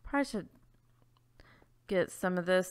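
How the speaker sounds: whispered aside to herself; a quick whisper while playing. Real, not acted. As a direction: breathe it out unvoiced.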